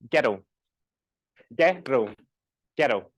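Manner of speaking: "Ghetto" in two distinct syllables with a Scottish R; two-syllable Scottish pronunciation. Shown as a demonstration. Teacher demonstrating her accent, "Ghetto" in two syllables. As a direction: break "Ghetto" into two beats. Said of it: "In my accent, there's two".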